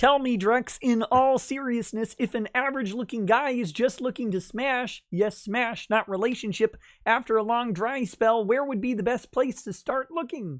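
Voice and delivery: cartoon frog voice. Reading a requested question aloud, in Kermit the Frog voice. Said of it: "I don't know why that was in Kermit voice".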